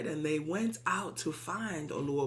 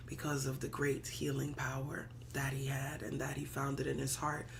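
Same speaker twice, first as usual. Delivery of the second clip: whisper; 3 semitones lower, 6 dB quieter than usual. Real, not acted. Hushed sermon line.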